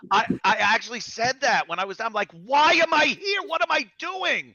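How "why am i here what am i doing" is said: high-pitched mock bewilderment; retold dismayed questioning. Retelling a moment of clarity, high mock dismay. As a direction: wail it like a sudden realization, played for laughs.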